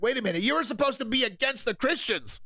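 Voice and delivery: high, startled disbelief; mock surprised. Streamer voicing liberals' surprise, pitched high. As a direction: act caught off guard.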